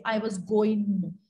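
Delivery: mock Evans accent, slow and dropping sounds; slow mock Evans accent with clipped words; Evans's clipped accent. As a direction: imitate Evans swallowing half his words. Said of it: "This is the accent of Evans".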